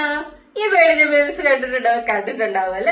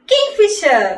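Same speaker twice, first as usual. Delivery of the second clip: higher, louder കിങ് ഫിഷർ with weight on കിങ്; emphatic model word; clear teaching word; 6 semitones higher, 4 dB louder, much slower than usual. Shown as a demonstration. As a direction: say കിങ് ഫിഷർ clearly, pitched up, for kids to copy. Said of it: "babies പറഞ്ഞേ".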